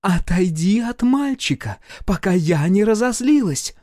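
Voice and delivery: angry warning. A narrator's reading. Woman warns Mosya away from the boy, angry.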